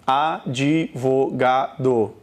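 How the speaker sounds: measured five-part Advogado, with "di" on its own; syllable by syllable. Shown as a demonstration. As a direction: count out Advogado in five beats. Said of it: "Quantas sílabas você pronuncia?".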